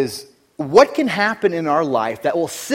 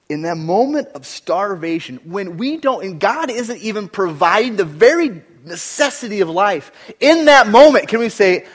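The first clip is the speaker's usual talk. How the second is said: from steady to loud preaching; building sermon; 6 semitones higher, 6 dB louder than usual. Acted. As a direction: climb to a forceful peak.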